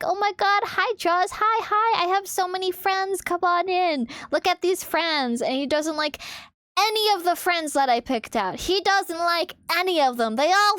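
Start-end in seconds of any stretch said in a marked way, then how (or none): 0.0-5.4 excited host. Retold or imitated. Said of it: "I'm like".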